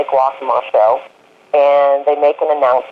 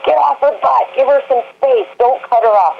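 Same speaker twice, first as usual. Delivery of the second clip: higher, half-hearted retold yell at riders; mock yelling; 10 semitones higher than usual. Trainer yelling at kids in the show ring, mock yell. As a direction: call out warnings to kids in the ring, lightly. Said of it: "I was yelling at kids all day long".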